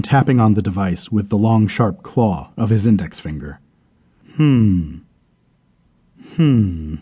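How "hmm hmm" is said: a low, musing hmm to himself; puzzled hmm. A narrator's reading. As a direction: hum it twice, puzzled over the screen. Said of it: "he repeated to himself".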